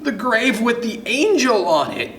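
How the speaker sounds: put-on high-pitched panicked child; excited high storybook screech. A narrator's reading. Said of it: "you screech".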